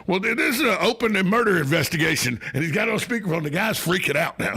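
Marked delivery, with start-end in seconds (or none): 0.1-2.4 mock cop. The speaker invents murder investigation.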